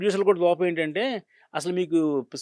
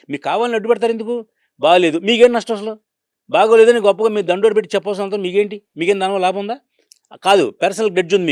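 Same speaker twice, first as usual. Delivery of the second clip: heated angry protest; 4 semitones higher, 6 dB louder than usual. Real, not acted. Producer scolding a journalist over bad reviews, raised indignant voice. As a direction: hit back at the critics, voice raised and pressing.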